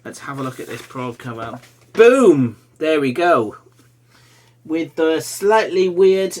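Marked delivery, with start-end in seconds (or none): 1.9-2.6 excited reveal. Real, not acted. Reveals cover.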